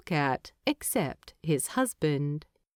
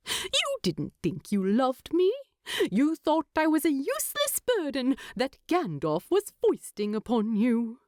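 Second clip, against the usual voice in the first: higher, indignant hobbit teasing his husband; mock outrage, pitched up; voiced Bilbo; 6 semitones higher than usual.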